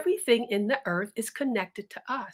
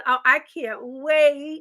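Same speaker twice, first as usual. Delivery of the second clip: stretched-out, savouring sigh of anticipation; slow dreamy longing; 3 semitones higher, 4 dB louder, slower than usual. Acted. Milkmaid dreaming of the party, slow and longing. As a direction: linger on each word, dreaming of the party.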